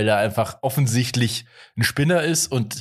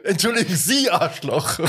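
police meme; 6 semitones higher than usual. Retold or imitated. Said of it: "wie dieses Polizei-Meme".

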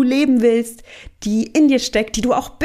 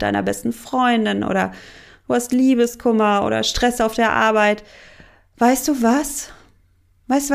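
friendly coaxing voice. Retold or imitated. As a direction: soothe her like a kind friend offering comfort food. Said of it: "ganz freundlich extra formuliert".

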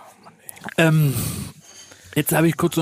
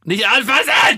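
sharp shout; 6 semitones higher, 4 dB louder, slower than usual. Real, not acted. Grabbing for the lemons.

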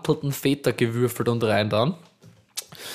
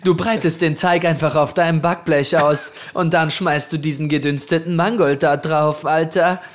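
Hollywood voice; 3 semitones higher, 3 dB louder than usual. Acted. Performing the recipe.

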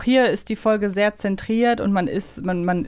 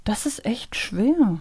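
slow whisper to herself; much slower than usual. Real, not acted. Stuck on quiz, thinking aloud.

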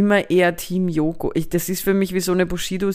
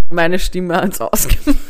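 laughing; 6 dB louder than usual. Real, not acted. Laughing after the poll result.

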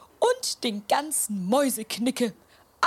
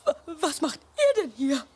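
tearful; 3 semitones higher than usual. Acted. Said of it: "sie weint".

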